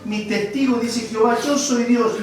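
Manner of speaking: preaching scripture. Acted. Preacher reading Isaiah aloud to the congregation, slow and emphatic. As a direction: proclaim each phrase like God speaking.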